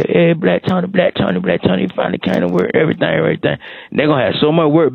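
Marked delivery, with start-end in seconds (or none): 0.1-3.6 high excited greeting, voices up; excited coworkers. Retold or imitated. Coworkers hyped to see him, high excited greetings. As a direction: cheer him in like coworkers spotting him. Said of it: "everybody gonna be dapping you up".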